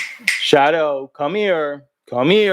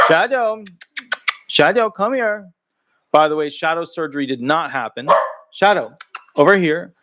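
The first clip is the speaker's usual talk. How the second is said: calling the dog. Real, not acted. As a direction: call the dog over sweetly.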